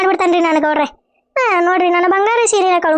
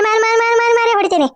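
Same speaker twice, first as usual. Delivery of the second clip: higher, rapid repeated blows threat; fierce threat; 5 semitones higher, faster than usual. Acted. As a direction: hammer each ಮಾರಿ like a slap. Threatening to beat thief. (ಕಳ್ಳನಿಗೆ ಚಪ್ಪಲಿ ಏಟಿನ ಕೋಪದ ಬೆದರಿಕೆ)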